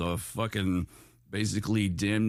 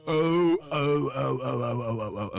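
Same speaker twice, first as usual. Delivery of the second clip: surprised oh; 4 semitones higher than usual. Real, not acted. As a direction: blurt it out surprised. Sudden realization.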